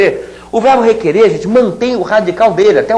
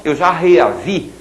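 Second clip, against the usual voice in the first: slow demo of common form; 2 semitones lower, slower than usual. Shown as a demonstration. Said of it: "o povo fala".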